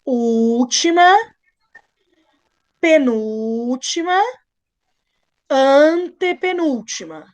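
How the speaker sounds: each word drawn out slowly, one by one; teacher counting syllables slowly. Shown as a demonstration. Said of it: "você conta de trás pra frente".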